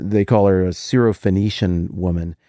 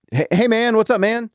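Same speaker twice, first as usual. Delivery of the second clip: much higher, breezy bro greeting; casual dude greeting; 11 semitones higher than usual. Retold or imitated. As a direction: toss off a friendly guy-to-guy hello. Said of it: "Like, I use that all the time".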